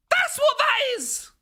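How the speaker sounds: high, slow shout falling at the end; drawn-out shout. Real, not acted. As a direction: stretch the yell out in alarm.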